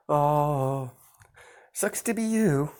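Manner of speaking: mocking taunt. Narrator mocks the slapped girl in a high taunting voice. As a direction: taunt them in a high sneering voice. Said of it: "I was like".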